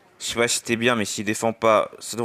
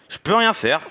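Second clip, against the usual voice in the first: exasperated cry; 10 semitones higher than usual. Real, not acted. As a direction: cry out in frustration. Higher exasperated repeat.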